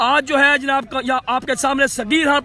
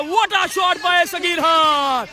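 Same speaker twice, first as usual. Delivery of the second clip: slow, stretched excited shout; 3 semitones higher, much slower than usual. Real, not acted. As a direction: savour every word of the big hit. Back-to-back sixes, commentator shouts.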